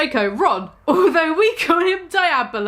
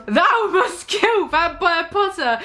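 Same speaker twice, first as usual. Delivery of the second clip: hammy villain; 5 semitones higher, slower than usual. Acted. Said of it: "he yells".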